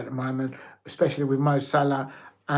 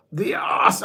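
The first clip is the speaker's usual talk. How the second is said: laughing breakdown; 3 semitones higher than usual. Real, not acted. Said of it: "I can't do it".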